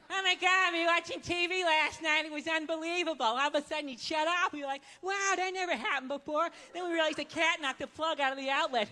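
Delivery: mock over-excited bore on a bus; too-loud bad storyteller. Jackass twenty rows back telling the worst story, too loud. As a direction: tell a dull story as if it were amazing. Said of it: "bad stories are always told way too damn loud".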